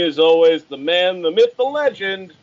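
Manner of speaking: announcer introduction. Real, not acted. Introducing the co-host.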